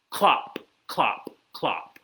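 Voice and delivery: evenly spaced hoof clops; horse hooves. Acted. Reader shows kids horse feet, crisp clopping. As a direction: clop it out, one beat at a time. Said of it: "He can sound like horse feet".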